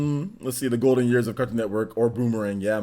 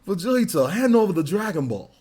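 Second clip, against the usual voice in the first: higher anime villain demand; swooping put-on villain voice; Zarbon; 4 semitones higher than usual. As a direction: demand it as a hammed-up cartoon villain. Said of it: "Zarbon's voice though".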